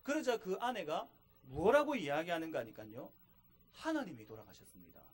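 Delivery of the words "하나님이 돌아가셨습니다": tearful grief. Retold or imitated. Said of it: "그러면서 막 흐느껴 우는 겁니다".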